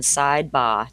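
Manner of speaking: slow, drawn-out Boston-style "side bar"; attempted Boston accent. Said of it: "I don't know if I can do that accent".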